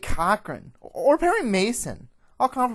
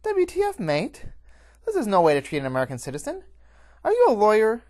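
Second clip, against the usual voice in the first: high, loud, outraged fox woman; full-voiced, high-pitched ranting; yelling like a New Yorker; 12 semitones higher, 10 dB louder than usual. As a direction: shout your indignant protest at the guards. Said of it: "yelling like a New Yorker".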